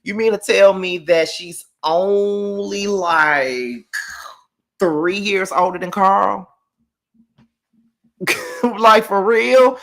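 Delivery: high, slow, stunned disbelief with a laugh; can't believe it, pitch way up and draw it out; shocked disbelief. Real, not acted. Recapping the show, shocked to learn Angela's age, high and slow disbelief.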